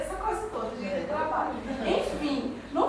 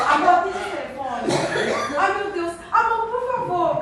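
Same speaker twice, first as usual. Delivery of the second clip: desperate plea; 5 semitones higher, 7 dB louder than usual. Retold or imitated. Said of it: "Aí eu".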